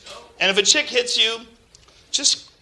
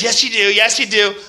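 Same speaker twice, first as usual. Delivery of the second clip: mock insistent contradiction; 3 semitones higher, 5 dB louder than usual. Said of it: "When someone says".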